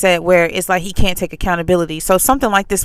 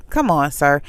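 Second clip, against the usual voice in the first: calm; 4 semitones lower than usual. Retold or imitated. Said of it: "I was as calm as I could be".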